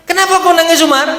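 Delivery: Abu Bakar asking Umar. Retold or imitated.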